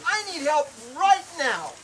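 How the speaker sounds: asking a stranger for help, urgent; urgent plea. Retold or imitated. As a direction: demand help at once.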